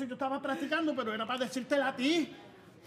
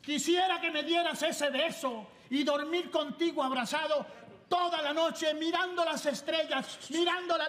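slow, tender recited poem; mock romantic recital; slower than usual. Man rehearsing a love poem for his girlfriend, slow and tender. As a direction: recite it like a lovesick suitor, slowly. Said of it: "Dice así".

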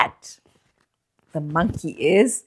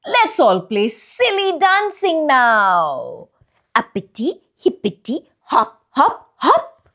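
playful tortoise voice; 5 semitones higher than usual. Acted. Tortoise voiced, silly dancing.

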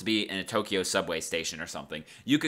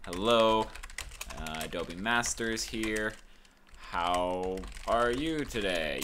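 typing aloud; 3 dB quieter, slower than usual. Shown as a demonstration. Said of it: "we can just type in".

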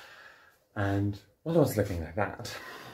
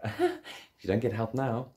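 laughing; 3 semitones higher than usual. Real, not acted. Laughing while retelling near death.

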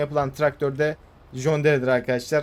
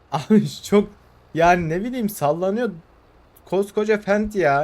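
laughing; 5 semitones higher, 4 dB louder than usual. Real, not acted. Laughing at swaying tractor.

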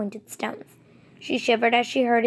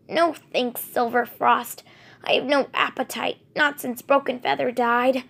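grief; 2 semitones higher than usual. Acted. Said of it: "Her voice throbbed with grief".

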